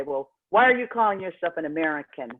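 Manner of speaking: mildly puzzled retold question; perplexed. Africans questioning a traveler's nationality, retold perplexity. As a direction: imitate someone baffled, lightly. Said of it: "they would sometimes be perplexed".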